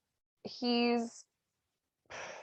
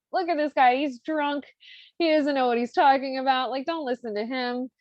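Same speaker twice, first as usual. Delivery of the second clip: higher-pitched discrediting; mock dismissiveness; 5 semitones higher than usual. Women tell the Count the gardener is drunk, high and dismissive. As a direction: lightly act out talking someone down.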